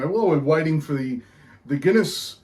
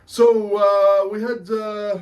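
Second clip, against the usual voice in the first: put-on Irish accent; 5 semitones higher than usual. Beer show host greets punters, hammed-up Irish accent. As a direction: put on a cheeky Irish brogue. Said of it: "I'll go back to normal talk here".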